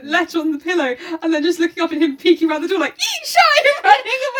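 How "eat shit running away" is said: mock taunt. Retold note quote, high pitch.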